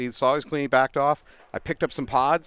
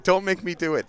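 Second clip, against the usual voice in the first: half-laughing, a little higher pitch; laughing mock scream; 4 semitones higher than usual. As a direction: laugh through a mock threat. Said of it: "I started screaming".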